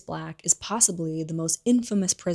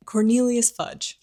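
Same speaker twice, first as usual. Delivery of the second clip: "Cornelius Fudge" said slow and louder through a laugh; laughing correction; 5 semitones higher, 5 dB louder than usual. Real, not acted. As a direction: land the name clearly, laughing at the slip. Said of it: "I almost said Coriolanus".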